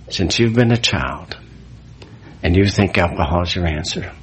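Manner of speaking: gentle, slowing counselor's voice; compassionate. Retold or imitated. The counselor comforting the drunk priest, gently compassionate. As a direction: soothe him with compassion. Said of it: "with such compassion in his eyes".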